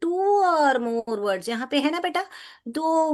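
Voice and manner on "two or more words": very slow, word by word; slow dictation. Shown as a demonstration. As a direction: read the definition slowly to children. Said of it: "तो compound words क्या होते हैं बेटा".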